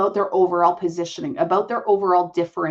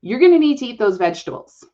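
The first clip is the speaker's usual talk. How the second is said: louder and fast, said with a full stop; firm, final; 5 dB louder, faster than usual. Shown as a demonstration. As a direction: make it a non-negotiable order to a child. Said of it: "with an exclamation".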